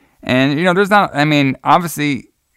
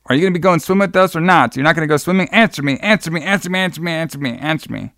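taunting; 5 semitones higher, faster than usual. Retold or imitated. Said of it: "Judy's friends taunting".

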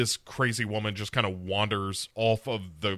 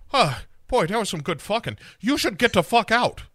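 high, exaggerated character voice; pitched-up, brash send-up of a woman; acted Sarah; 10 semitones higher, 3 dB louder than usual. Dismissing a lover after sex, brash high voice.

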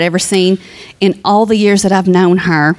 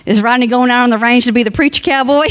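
laughing quote; faster than usual. Retold or imitated. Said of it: "she'd say to me".

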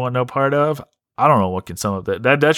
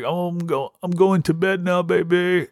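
imitating sleepy boyfriend; 6 semitones higher than usual. The catfish saying goodnight to Priscilla, mock coo. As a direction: coo it like a drowsy lover. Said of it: "He'd be like".

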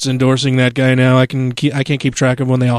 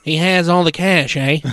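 pinched nasal Ted Cruz; 2 semitones higher than usual. Retold or imitated. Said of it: "really pinched and nasally".

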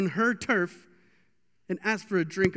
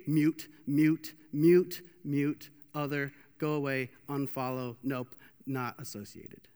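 dismissive; 5 semitones lower, slower than usual. Acted. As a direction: tick people off one by one, slowing and dropping away. Mimes dismissing people on Facebook.

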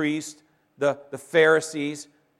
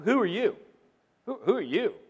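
skeptic's challenge; 6 semitones higher than usual. Retold or imitated. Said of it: "somebody who goes".

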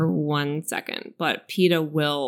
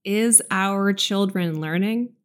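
quoting Bush slowly; slower than usual. Retold or imitated. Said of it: "very poignant quote".

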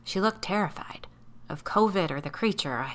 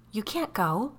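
exclaimed; 5 semitones higher than usual. Acted. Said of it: "Sally exclaimed".

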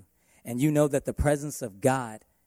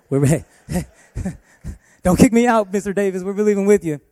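laughing nurse; 7 semitones higher, 9 dB louder than usual. Retold or imitated. Nurse laughing, quoting herself.

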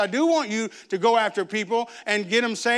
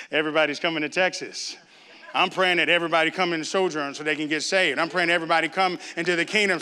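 lower, glad and full of faith; hopeful welcome; 5 semitones lower than usual. Shown as a demonstration. Preacher shows the faithful view of newcomers, hopeful and warm. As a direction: turn the complaint into a prayer. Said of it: "So it's how you see it".

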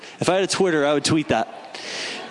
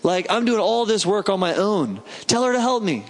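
higher-pitched, exasperated pleading; mock angry; 5 semitones higher than usual. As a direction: act out an aggrieved sister demanding backup. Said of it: "and she's angry".

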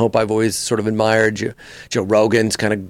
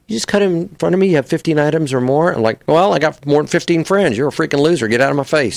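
quick, higher rude snap; mock the jerk in aviators; obnoxious guy in aviator glasses; rude glasshole; 4 semitones higher than usual. Shown as a demonstration. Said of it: "You put on the glasses".

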